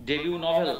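"debut" in "debut novel" said de-byu; silent T in debut. Shown as a demonstration. Teacher gives debut novel as example, T silent. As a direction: drop the final T of "debut", ending on yu. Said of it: "ডেবিউ, টি হবে না".

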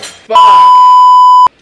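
sudden high scream. Real, not acted. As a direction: yell out from the burn. Mouth on fire from sauce.

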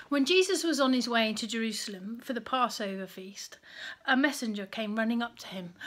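put-on reading a Bible story aloud to children; gentle storyteller reading; story narration. A narrator's reading.

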